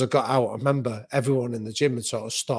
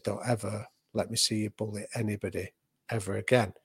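quietly; 3 semitones lower, 6 dB quieter than usual. Retold or imitated. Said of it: "he just quietly said to me".

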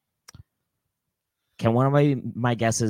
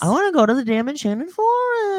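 excited plea; 5 dB louder than usual. Real, not acted. Pleading to James on air.

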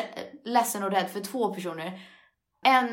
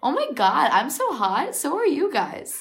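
mock vain gush; 6 semitones higher than usual. Imagined confident self-talk.

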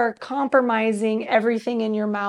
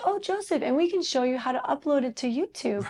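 chirpy store clerk; 3 semitones higher, 4 dB quieter than usual. Retold or imitated. Voicing Mac store staff.

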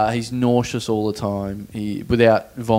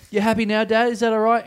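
higher, teasing question; 9 semitones higher than usual. Retold or imitated. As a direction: needle him playfully. Teasing dad.

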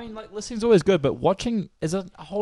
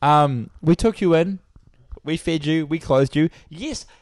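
loud teasing; 6 dB louder, slower than usual. Pretend. Teasing Gary loudly.

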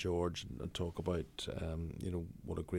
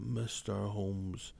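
drawn-out, very slow "Mister Holmes"; slow greeting; much slower than usual. Retold or imitated. Ferguson greeting Eamon slowly by name. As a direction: stretch his name out slowly. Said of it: "he grabbed my hand and he went".

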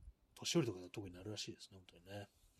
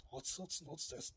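mock scream; 7 semitones higher, 3 dB quieter than usual. Radio host mimicking the screaming gift sound for listeners, high mock scream. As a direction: mimic a screaming gift voice at a held-back volume. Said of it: "結構でかい声で絶叫してる".

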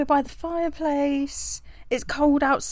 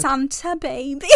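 whisper yelling; 5 dB quieter than usual. Retold or imitated. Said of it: "she's like".

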